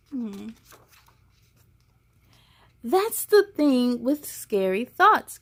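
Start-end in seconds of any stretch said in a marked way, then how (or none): 2.8-5.4 kindly. Acted. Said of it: "Grandma says kindly".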